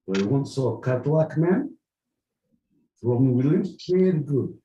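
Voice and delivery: light mock Russian accent; a hint of a stern Russian. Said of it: "Russian, my boy Pete".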